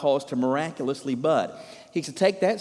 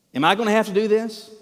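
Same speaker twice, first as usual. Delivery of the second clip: indignant; 5 semitones higher, 5 dB louder, faster than usual. Acted. Acting out Moses's indignant boast.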